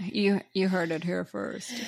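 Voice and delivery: slow, lazy frat bro drawl. Acted. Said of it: "I tried to do my frat voice".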